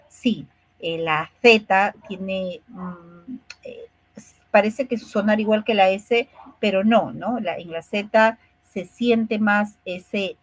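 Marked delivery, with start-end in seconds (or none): 1.0-2.6 "la Z" with the th sound, said slowly; slow Spain-style "Z" as a lisped th; Castilian z. Shown as a demonstration. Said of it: "En cambio, en España". 7.4-10.4 "la Z" with the tongue between the teeth, said slowly; Castilian z. Shown as a demonstration. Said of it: "salir de la lengua entre los labios".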